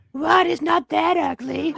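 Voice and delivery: very high, rough, creaky put-on character voice. Reading the Queen's lines in a group script reading: Queen in Fred's voice. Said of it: "As soon as I start doing the Fred voice".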